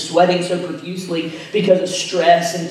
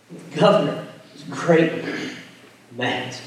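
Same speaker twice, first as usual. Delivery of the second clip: dropping lower and much softer to a whisper-like close; hushed ending; 6 semitones lower, 7 dB quieter than usual. Acted. Pastor closing the trial reading for listeners, fading and low. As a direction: let the sentence fall away.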